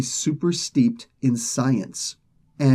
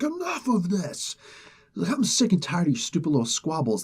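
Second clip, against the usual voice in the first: menacing boss voice; 5 semitones higher, 3 dB quieter than usual. Retold or imitated. Angry Apocalypse silencing the council.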